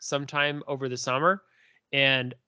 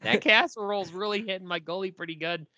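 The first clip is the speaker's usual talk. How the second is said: put-on a light folksy Canadian accent, don't you know; stuffed on casserole, in a homey Canadian accent; 3 semitones higher, faster than usual. Bragging about his casserole in a mild folksy Canadian accent. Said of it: "Canadian intensifies".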